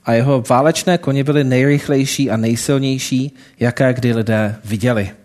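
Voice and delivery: lightly voiced storytelling read to the congregation; story narration. A narrator's reading. Preacher telling the congregation a parable, storytelling voice. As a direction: tell the parable steadily, drawing listeners in.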